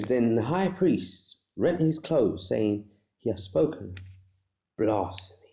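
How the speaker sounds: slow, weighty reading of the verse; solemn scripture reading. Shown as a demonstration. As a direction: read it like holy scripture, slowly. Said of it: "it says".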